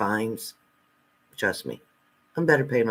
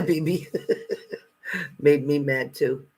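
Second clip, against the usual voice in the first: laughing; 3 semitones higher than usual. Real, not acted. Laughing at viewer's comment.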